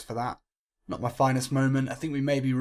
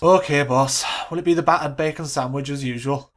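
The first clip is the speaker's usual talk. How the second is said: meek assistant; 7 dB louder than usual. Acted. Assistant meekly giving in.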